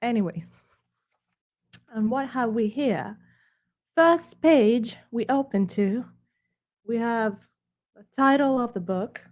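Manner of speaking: lightly put-on snooty British accent. Presenting his book to viewers in a hammed-up snooty British accent. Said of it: "British accent to deliver".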